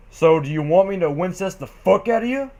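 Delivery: lightly voiced big brother; hint of a farm brother. Big Mac voiced in fanfic reading.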